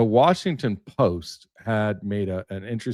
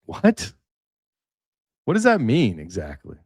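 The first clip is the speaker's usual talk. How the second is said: surprised what. Real, not acted. Baffled by the dating profile.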